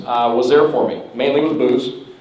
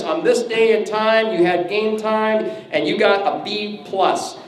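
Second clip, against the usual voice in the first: mock coach's report; 4 semitones higher than usual. Mock report card on door.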